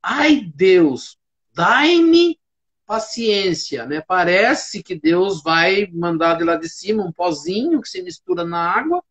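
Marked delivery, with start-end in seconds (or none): 0.0-3.8 drawn-out mock plea to heaven; hammed-up imploring sigh of words; imitated exasperated plea. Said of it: "as pessoas falam assim".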